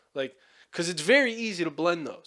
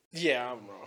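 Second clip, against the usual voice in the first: reluctant admission; 5 semitones lower, 5 dB quieter than usual. Retold or imitated. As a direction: lower and softer, grudging. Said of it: "it fucking sucks to go".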